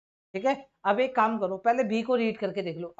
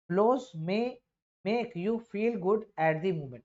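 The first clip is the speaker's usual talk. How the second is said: slow reading aloud; much slower than usual. Shown as a demonstration. Teacher reads sentence aloud.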